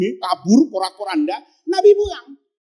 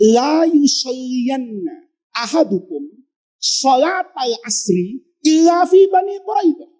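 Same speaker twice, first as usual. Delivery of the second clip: slow solemn recitation. Shown as a demonstration. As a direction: recite it unhurried, then call it out. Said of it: "Nabi ngomongnya begini nih". (dibacakan pelan lalu diserukan lantang)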